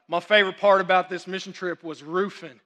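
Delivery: Southern dialect. Retold or imitated. Kid sharing at evening service, put-on Southern accent. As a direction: mimic a kid with a newly acquired Southern accent. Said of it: "Did they teach them some dialect?".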